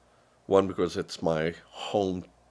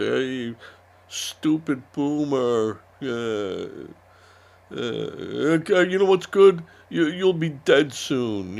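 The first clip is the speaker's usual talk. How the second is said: higher, louder sneering heckler voice; hammed-up shouting taunt; mocking protester yell; 6 semitones higher, 6 dB louder, slower than usual. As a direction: jeer at an old man like a rowdy protester. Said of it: "they'd be screaming at the protest".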